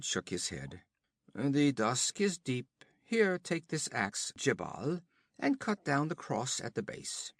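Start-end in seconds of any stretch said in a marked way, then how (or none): 1.3-7.3 höher und lauter, prahlerisch spöttisch; höhnischer Räuberhauptmann. Acted. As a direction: ein Wüstenräuber verhöhnt den Gefangenen. Olgerd befiehlt.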